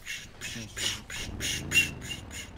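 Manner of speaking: whispered shushing; whispered hush. Acted. Hiding from police, shushing the others in a whisper. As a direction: keep everyone silent.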